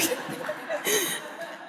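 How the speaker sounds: high, breathless laugh at herself; embarrassed laugh. Real, not acted. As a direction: laugh at your own nerves. Laughs at herself mid speech.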